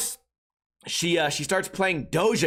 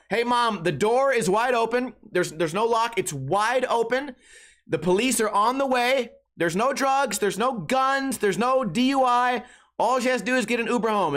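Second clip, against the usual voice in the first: retold yell; 6 semitones higher than usual. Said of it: "I'm yelling".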